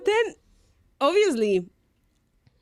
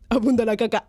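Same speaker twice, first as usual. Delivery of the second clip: laughing punchline; 3 semitones lower, 4 dB louder, much faster than usual. Retold or imitated. Repeats punchline, starts laughing.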